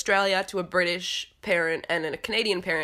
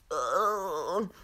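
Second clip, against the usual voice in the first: laughing groan; 4 dB quieter than usual. Real, not acted. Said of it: "trying to get to my next word without having a coughing fit".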